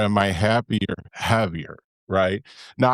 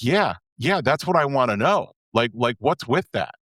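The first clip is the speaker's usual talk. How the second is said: mock almost angry; 2 semitones higher than usual. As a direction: imitate a friend getting a bit heated. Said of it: "you actually got almost angry".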